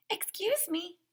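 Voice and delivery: high, fluttery excuse me; diva photographer. A narrator's reading. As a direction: sing it out to the boy. Miss Joni calls to AJ.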